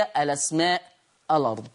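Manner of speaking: الأسماء as "alasmaa", الأرض as "alard"; naql pronunciation. Shown as a demonstration. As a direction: move the hamza's vowel onto the lam in الأسماء and الأرض. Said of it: "في الكلمات اللي عرضناها".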